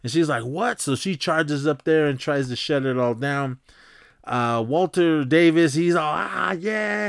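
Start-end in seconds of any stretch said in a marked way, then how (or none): 0.4-0.8 high, rising startled question; mock shocked. Woman finding an office party, mock shocked question. 6.1-7.1 high, drawn-out party whoop at usual volume; mock hyped cheer. Hyped guest hooking up with the hosts, mock cheer.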